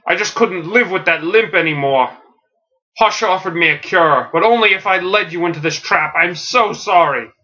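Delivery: mildly tearful, pleading confession; tearful apology. Acted. Alfred confessing to his family he led them into a trap, mildly tearful. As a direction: apologize with a touch of tears, acted. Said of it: "He's in tears".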